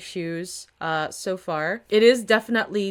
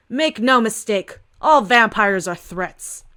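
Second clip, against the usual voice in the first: slow, deliberate, louder warning; stern declaration; 6 dB louder, slower than usual. Acted. Captain shutting down a reporter, slow and stern. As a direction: lay down the law slowly, word by word.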